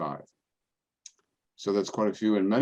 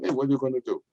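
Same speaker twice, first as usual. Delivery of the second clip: resigned parishioner; 5 semitones higher, much faster than usual. Retold or imitated. Angelina voiced.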